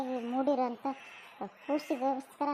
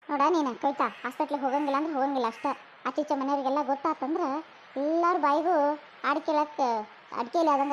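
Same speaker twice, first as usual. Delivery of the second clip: louder, fast stern order; stern scolding; 2 semitones higher, 4 dB louder than usual. Acted. Mother-in-law forbidding Kavita the hospital, stern scolding. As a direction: lay down the law to her.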